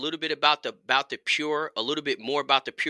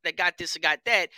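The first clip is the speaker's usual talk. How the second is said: dismissive quote; 7 semitones higher than usual. Retold or imitated. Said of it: "guys are kinda thinking like".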